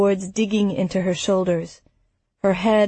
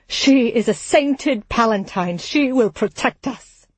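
strained, tearful; 3 semitones higher than usual. Acted. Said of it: "His voice was strained, choked with tears".

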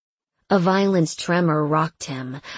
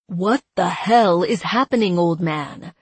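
shouting; 4 dB louder than usual. Acted. Panicked demand amid chaos.

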